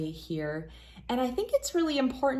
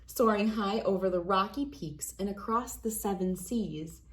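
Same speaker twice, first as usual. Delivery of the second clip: put-on reading to children. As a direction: read it like a bedtime picture book for kids. Reads picture book to children.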